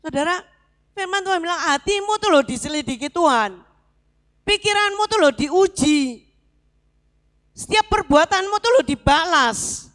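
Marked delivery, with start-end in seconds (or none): 1.6-9.9 emphatic scripture quote. Acted. Preacher proclaiming God's word to congregation, building emphasis. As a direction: proclaim each warning, rising. Quoting scripture with rising force.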